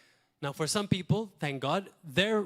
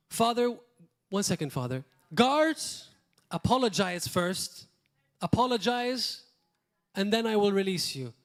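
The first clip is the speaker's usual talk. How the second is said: a sarcastic Jesus, much higher and louder on guards; mock demanding Jesus; 4 semitones higher, 4 dB louder than usual. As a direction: ham up Jesus demanding an apology from the cross. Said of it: "Can you imagine Jesus".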